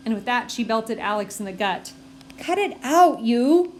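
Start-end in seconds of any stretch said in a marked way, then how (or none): 2.4-3.7 loud, higher outraged yell; angry shout. A narrator's reading. Alex punched in the gut, shouting at Elaine. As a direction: yell back after the punch.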